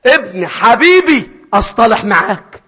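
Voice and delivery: fatherly embrace. Acted. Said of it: "اصطلحوا مع بعض".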